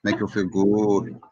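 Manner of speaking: slow, lightly put-on Thai English; mock Thai accent. Joking with friends, a slow, lightly mocking Thai accent. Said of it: "That's Thailand".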